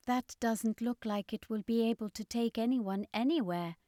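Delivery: sceptical companion; Askero, doubtful. A narrator's reading. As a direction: doubt the battered craft. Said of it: "Askero said".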